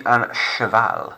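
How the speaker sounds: un cheval said slowly, sh sound; slow model of un cheval for repeating; French un cheval. Shown as a demonstration. Teacher models a word for pupils to repeat, slow French. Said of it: "repeat after me".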